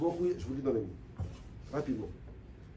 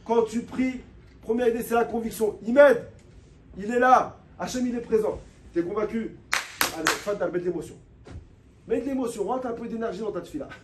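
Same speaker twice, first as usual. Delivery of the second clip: louder, higher, pleading sermon voice; fervent preaching; 5 semitones higher, 6 dB louder than usual. Real, not acted. Rabbi urging his listeners to pray with heart, fervent preaching. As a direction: preach it with full fire to the congregation.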